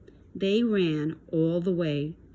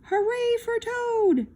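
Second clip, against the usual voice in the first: shouted. A narrator's reading. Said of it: "as he shouted".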